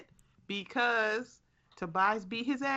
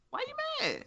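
much higher, teasing squeaky voice; mock high squeak; faster than usual. Cohost teasing the catchphrase back in a high squeak. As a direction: toss it back in a silly high voice.

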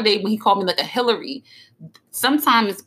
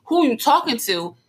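higher, unemphatic question; playful-sounding challenge; 6 semitones higher than usual. Shown as a demonstration. Girlfriend showing what he takes as a joke, playful. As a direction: ask it as if only playing. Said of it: "I'm playing".

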